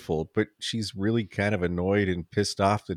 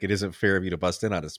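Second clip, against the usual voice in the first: playful; 5 dB quieter than usual. Shown as a demonstration. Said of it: "she's trying to say something playful".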